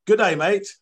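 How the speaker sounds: mock French referee greeting in a French accent. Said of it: "So here it is".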